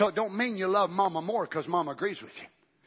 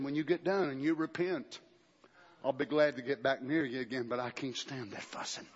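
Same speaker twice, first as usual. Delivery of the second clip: soft Holy Spirit voice; 4 semitones lower, 5 dB quieter than usual. Acted.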